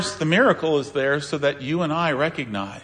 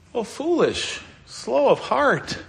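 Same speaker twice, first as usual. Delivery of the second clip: higher and slow, a retold rebuke; lightly voiced Jesus scolding the disciples; a touch of stern reproach; mild scolding; 9 semitones higher, slower than usual. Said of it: "he scolds them for".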